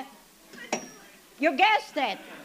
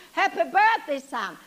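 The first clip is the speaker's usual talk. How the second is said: bright, louder happy birthday; cheerful greeting; 4 dB louder than usual. Retold or imitated. Mother at son's door, a mild cheerful greeting.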